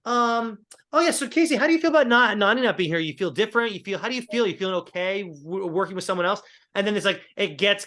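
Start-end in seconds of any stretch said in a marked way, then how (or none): 0.1-6.4 mock Justine. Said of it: "So Justine's like".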